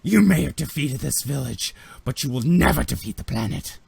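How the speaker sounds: acted shout at the invaders; defiant shout. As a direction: cry out defiantly, slightly held back. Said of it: "she shouts and she goes".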